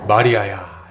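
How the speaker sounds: low, drawn-out call by name; low voice of Jesus calling a disciple; Jesus calling Mary. Acted. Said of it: "예수님이 이제 다시 한번 마리아를 부르십니다".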